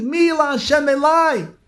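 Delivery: high, loud rallying cry; zealous cry. Retold or imitated. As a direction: call them to arms at full voice. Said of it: "and he screamed".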